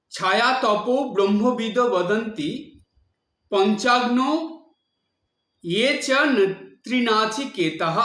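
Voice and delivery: careful Sanskrit-style recitation; Sanskrit pronunciation. Shown as a demonstration. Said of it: "উচ্চারণটা একটু সংস্কৃতর মতন করতে হয়".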